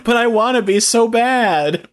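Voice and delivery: high squeaky puppet voice; talking accordion. Pretend. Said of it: "I'm the talking accordion".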